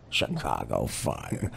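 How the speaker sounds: low, slow movie-trailer voice; mock promo announcer. Mocking the TV show's promo as a deep, slow announcer. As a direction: drag out "Chicago Fire" like a gravely serious promo.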